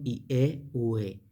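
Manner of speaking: "i, e, u, e" as ee-EH, oo-EH; pronunciation demo. Shown as a demonstration. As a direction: sound out "i, e, u, e" in two vowel groups. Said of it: "y nos da la pronunciación".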